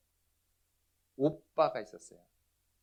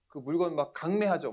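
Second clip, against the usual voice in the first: higher-pitched mock accusation; angry confrontation; 5 semitones higher, 4 dB louder than usual. Angry brother challenges pastor about forced sales, retold confrontation. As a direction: imitate a brother pressing an accusation. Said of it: "화가 나가지고 저한테 막 따지는 거예요".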